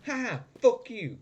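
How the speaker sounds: high jeer with a spoken cackle; gloating triumph. Real, not acted. Player taunting the dead enemy, gloating high. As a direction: crow loudly in victory.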